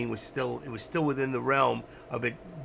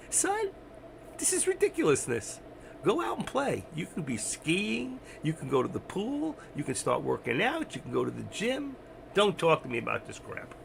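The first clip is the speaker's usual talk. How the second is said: God's voice; 3 semitones higher than usual. Retold or imitated. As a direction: lecture the son like an exasperated heavenly father. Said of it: "He goes".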